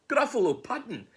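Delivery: high, loud cry of horror; wailing gruffalo. Acted. Gruffalo learning mouse's favourite food, high horrified wail. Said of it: "the gruffalo grat".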